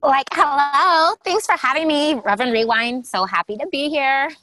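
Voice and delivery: high, loud, drawn-out bubbly greeting; gushing eighties guest. Pretend.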